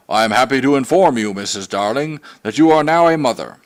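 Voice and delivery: a touch of formal announcing; mock-grand announcement of a birth; lightly voiced proud father; pompous father. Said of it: "in just such a tone as Mister Darling himself may have used".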